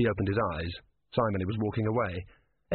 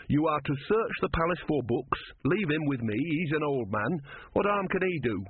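lightly voiced higher-pitched man taking charge; authoritative Brother; 5 semitones higher than usual. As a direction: give orders, then reason with him. Brother instructs the corporal.

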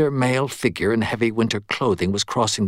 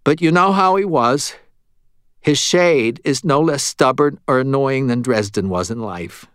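higher, louder pleading at the start, easing down; protesting medium; 5 semitones higher, 3 dB louder than usual. Acted. Medium excuses himself to Murphy, higher protesting voice. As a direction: protest as the reluctant medium, pitched up.

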